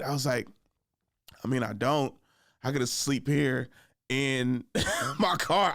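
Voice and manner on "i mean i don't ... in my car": slow, halting, easygoing protest; laid-back drunk. Retold or imitated. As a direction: drag it out calmly with a small laugh. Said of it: "in the coolest voice".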